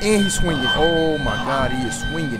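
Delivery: very high, loud panicked screaming; terrified screaming. Real, not acted. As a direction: shriek in terror as he swings. Killer attacking in game.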